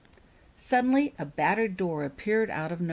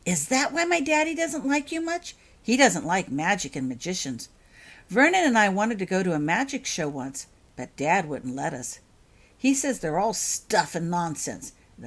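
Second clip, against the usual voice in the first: chattering excitedly; 3 semitones higher, 4 dB louder than usual. Acted. Holly chatters to Mister Potter climbing the steps, excited child chatter. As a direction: babble on eagerly about magic. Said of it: "chattering excitedly".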